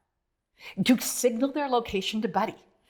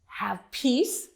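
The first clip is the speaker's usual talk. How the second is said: gentle reassurance; 2 semitones lower than usual. Retold or imitated. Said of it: "He says".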